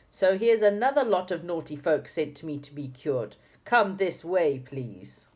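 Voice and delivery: a hint of a strict old teacher rounding up pupils; Dame Snap. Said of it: "I make a good Dame Snap voice".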